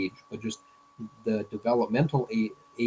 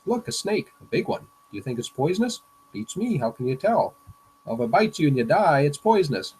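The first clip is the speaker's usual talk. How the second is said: cartoon kids chatting; 4 semitones higher, 5 dB louder than usual. Reading a cartoon's dialogue aloud.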